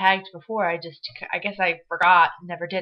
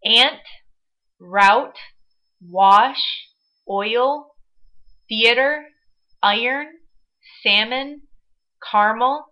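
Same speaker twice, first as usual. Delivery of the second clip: reading the word list; slower than usual. Shown as a demonstration. Reading the accent tag word list aloud to viewers, careful and distinct. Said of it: "the words that I'm supposed to say".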